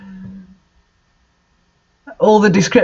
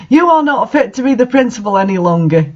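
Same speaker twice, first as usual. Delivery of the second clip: hammed-up yell; 2 semitones higher, faster than usual. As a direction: rattle off the accusation, overacted. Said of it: "yelled Rumbridge".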